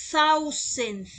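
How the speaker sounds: thousand with the tongue between the teeth on the th; teacher showing th in thousand; English thousand. Shown as a demonstration. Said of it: "como si estuvieran ustedes mordiendo la lengua".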